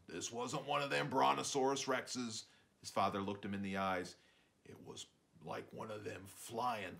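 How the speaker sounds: dad telling a tale. Acted.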